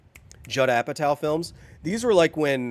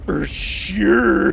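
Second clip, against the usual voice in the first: emphatic exclaim; 5 semitones higher, 8 dB louder than usual. Real, not acted. Echoing own mumble loudly.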